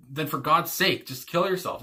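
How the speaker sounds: "sake" stressed with a falling tune; emphatic stress on SAKE. Retold or imitated. Showing the singer's emphasis, stress on SAKE. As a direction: put the weight on "sake", then let it fall. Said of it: "And the emphasis with the".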